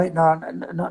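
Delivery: usual speaking voice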